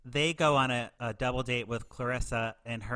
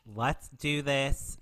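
slow sultry invite; much slower than usual. Retold or imitated. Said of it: "And she's like".

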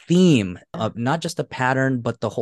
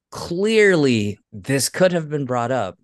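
drawn-out, higher, emphatic 'clearly'; exasperated reaction; 4 semitones higher, 4 dB louder, slower than usual. Retold or imitated. Host recounting her reaction to the show, exasperated. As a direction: stretch it out, pointedly obvious.

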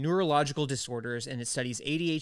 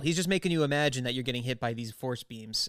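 put-on New York accent. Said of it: "She's a weird New York accent".

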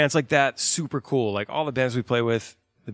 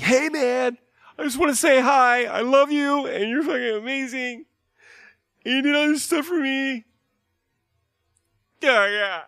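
shrill high squealing fan voice, much louder; gushing fangirl; 6 dB louder than usual. Retold or imitated. Fan mocking a starstruck fan greeting a band, high squeal. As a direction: gush like a starstruck superfan meeting the band. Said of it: "Don't run in there and be like".

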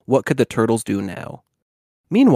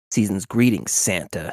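mild hiss; 4 semitones lower than usual. Acted. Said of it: "he hissed".

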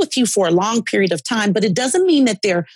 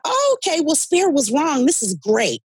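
relieved inner voice; 7 semitones higher than usual. Retold or imitated. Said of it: "And I just thought".

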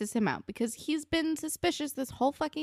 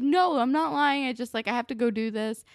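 defensive; 4 semitones higher, 5 dB louder than usual. Retold or imitated. Retold defensive denial in argument.

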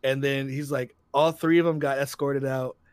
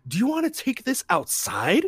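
retold threat; 9 semitones higher, 3 dB louder than usual. Boyfriend challenges to fight.

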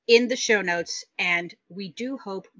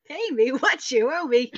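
louder, sassy demand; 4 semitones higher, 4 dB louder than usual. Pretend. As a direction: belt it out with sass. Sassy song lyric quote.

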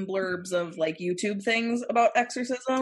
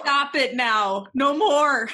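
pleading shout; 3 semitones higher, 4 dB louder, slower than usual. Real, not acted. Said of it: "I hate the guttural growling".

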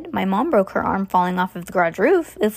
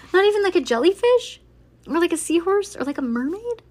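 put-on much higher, girlish questioning; high, dismayed whine of questions; high-pitched pleading; 10 semitones higher than usual. A narrator's reading. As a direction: plead upward on each item. Disappointed girls plead for better roles.

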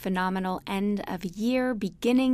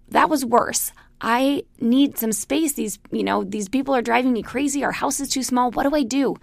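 the farmer at the end of his rope, pleading; raised, frazzled voice of an overwhelmed farmer; exasperated farmer; 3 semitones higher, 4 dB louder than usual. Acted. Farmer complains to wise woman.

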